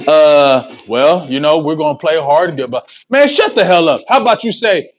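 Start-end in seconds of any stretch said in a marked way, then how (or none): 0.1-2.8 evasive Jason Garrett. Retold or imitated. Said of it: "What's your thoughts on that, Jason Garrett?".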